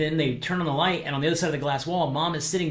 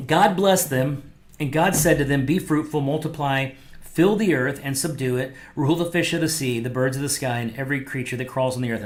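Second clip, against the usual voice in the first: scripture reading. Real, not acted. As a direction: read the verse with weight. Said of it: "Genesis one twenty-eight says".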